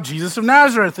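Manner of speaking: crying out. Retold or imitated. Soldiers answering Jesus a second time, crying out. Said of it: "this time they cry out".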